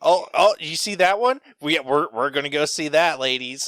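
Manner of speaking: hammed-up eager whispering to friends; gushing old lady. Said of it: "she'd, like, lean over".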